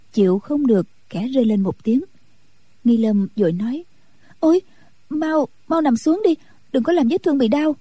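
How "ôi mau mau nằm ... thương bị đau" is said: put-on a lightly higher, quick girlish voice; hurt young nun. A narrator's reading. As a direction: sulk through hurt feelings. (giọng ni cô trẻ hờn dỗi, hơi cao)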